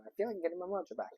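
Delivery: laugh, then rush the words out high; amused laughing. Real, not acted. Reader tickled by the funny saying that came up, amused laughing. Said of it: "that was a really funny saying".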